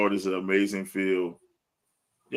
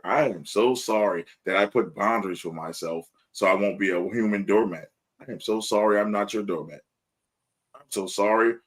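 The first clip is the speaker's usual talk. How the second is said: understated mock apology, leaning on so; sarcastic sorry. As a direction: apologize without meaning a word. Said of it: "the sorry is sarcastic sorry".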